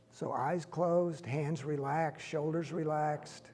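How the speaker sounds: slow, unhurried meditation leader with long pauses; guided meditation. Real, not acted. Teacher leading a standing group through breathing, calm guided meditation.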